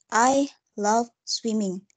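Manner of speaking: slow, separated words with weight on "love" and "swimming"; stress on noun and verb. Shown as a demonstration. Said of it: "I give the stress at noun and verb".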